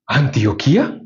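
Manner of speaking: mildly astonished question, rising at the end; surprised. Retold or imitated. Preacher imitates the visiting pastor hearing the name, surprised. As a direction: imitate someone taken aback. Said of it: "él abrió los ojos y dijo".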